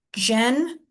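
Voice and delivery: Gen-er-al split into separate beats; syllable by syllable. Shown as a demonstration. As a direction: sound out each syllable apart. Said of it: "three single syllables".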